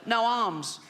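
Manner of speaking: put-on high strained child voice; comic child voice, blunt; Timmy voice. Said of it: "a funny little voice".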